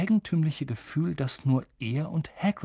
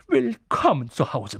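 put-on a touch louder, moved old man welcoming; gerührter Barmann; 2 semitones higher, 3 dB louder than usual. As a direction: greet him with tears in your eyes. Barmann begrüßt Harry gerührt. (alter Wirt, gerührt und etwas lauter)

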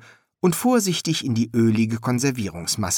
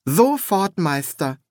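high, eager apprentice; willing young helper; 8 semitones higher, slower than usual. A narrator's reading. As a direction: answer high and keen to please. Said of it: "sagte Gurn bereitwillig".

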